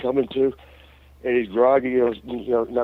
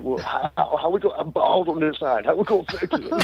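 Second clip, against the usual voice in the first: panicked; 3 semitones higher than usual. Retold or imitated. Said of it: "He was just so panicked".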